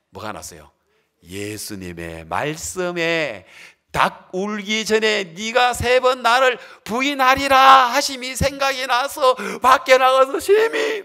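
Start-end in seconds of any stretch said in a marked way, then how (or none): 3.9-11.0 higher, louder, slow preaching proclamation; emphatic loud proclamation. Acted. Preacher proclaiming Jesus' warning to Peter, loud and slow. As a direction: proclaim the prophecy with full force. Jesus' prophecy read with force.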